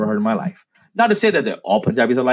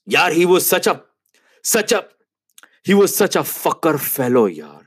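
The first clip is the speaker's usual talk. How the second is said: lightly mimicked coworker, pitched high; imitating a man venting, with halting restarts; acted curse attempt; 5 semitones higher than usual. Acting out Ilyas finally cursing someone.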